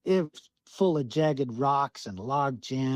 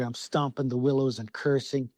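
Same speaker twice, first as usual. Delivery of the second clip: usual speaking voice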